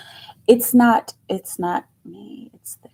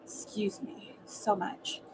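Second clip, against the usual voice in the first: slow breathy whisper of "Excuse me so much"; scandalized whisper; 11 dB quieter, slower than usual. Real, not acted. Reacting to the wink, slow hushed whisper. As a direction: whisper it in mock shock.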